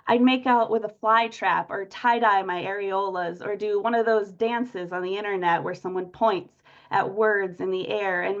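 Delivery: declaimed love sonnet, projected openings to lines; poetry reading. Acted. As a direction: read it out as a poem to an audience. Reads own sonnet aloud.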